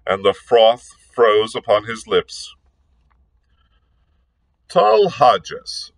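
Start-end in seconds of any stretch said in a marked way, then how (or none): 4.7-5.9 cold hard voice. Acted. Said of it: "in a cold, hard voice".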